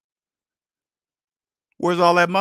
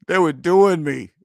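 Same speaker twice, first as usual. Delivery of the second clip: laughing; 6 dB louder, slower than usual. Real, not acted. Laughing at being scammed.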